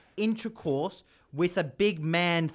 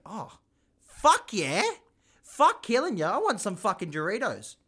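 eager crackhead; 5 semitones higher than usual. Acted. Crackhead accepts offered Doritos.

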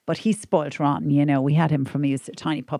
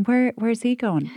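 alarmed; 5 semitones higher, slower than usual. Retold or imitated. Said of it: "And I was going".

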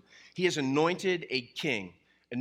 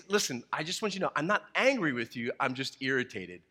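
put-on dad explaining to kids; faster than usual. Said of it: "I would always say".

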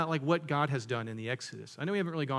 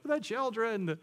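hammed-up wail of worry; mock panic. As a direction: moan it like an overdramatic complainer. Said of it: "I can't help but laugh a little bit".

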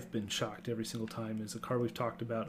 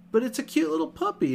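cooing; 6 dB louder than usual. Real, not acted. Gushing over puppy card.

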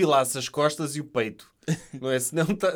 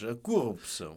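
deep mock Russian read; Russian accent; 5 semitones lower, 5 dB quieter than usual. Shown as a demonstration. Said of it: "queria dizer em sotaque russo".

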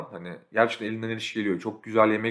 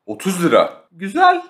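mock delighted; 7 semitones higher, 7 dB louder than usual. Reacting to lahmacun seller.

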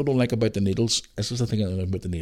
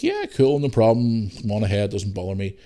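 breezy unbothered. Retold or imitated. His own breezy reply to doctor.

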